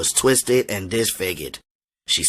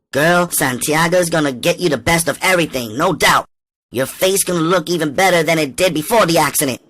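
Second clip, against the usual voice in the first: higher, louder pep talk; upbeat encouragement; 8 semitones higher, 4 dB louder than usual. A narrator's reading. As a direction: hype her up to stay strong. Staying cool, encouraging mother.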